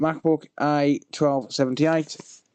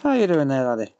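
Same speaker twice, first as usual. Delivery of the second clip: put-on northern accent. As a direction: ask again in a jokey northern accent. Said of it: "I don't know what accent he's supposed to be".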